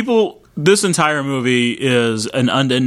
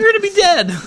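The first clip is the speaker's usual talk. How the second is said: high mock warning.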